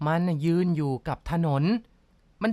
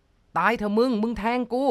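higher, louder, slow wounded cry; anguished roar; 5 semitones higher, 3 dB louder, slower than usual. Acted. Stabbed husband roars at his wife in pain. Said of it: "เสียงฝ่ายชายก็คำราม".

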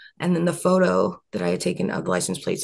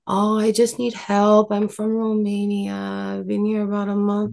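mock Romanian accent; 3 semitones higher than usual. Imitating a woman asking for help in a Romanian accent. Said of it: "I don't know if that's a Romanian accent or not".

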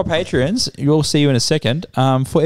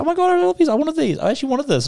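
much higher, gushing over snacks; girlfriend gushing; 13 semitones higher than usual. Retold or imitated. Mock girlfriend gushing about the snacks, high-pitched. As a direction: play her squealing with delight. Girlfriend's delighted reaction retold.

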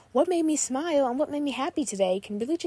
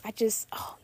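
breathy gasp; 4 dB quieter than usual. Real, not acted. Overwhelmed by a kind comment.

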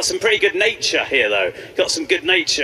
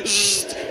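taser zap sound; 3 dB quieter than usual. Pretend. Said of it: "he'd jump out and go".

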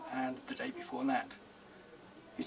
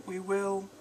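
put-on boy's voice; 8 semitones higher, 6 dB louder than usual. A narrator's reading. Boy voiced in story.

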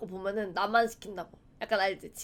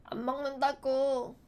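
put-on sulky mumbling kid; 4 dB quieter, much slower than usual. 방에서 웅얼대는 아이.

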